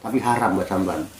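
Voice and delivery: a touch of weeping in a widow's tale; tearful widow. Acted. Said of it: "tambah nangis". (janda bercerita sambil sedikit menangis)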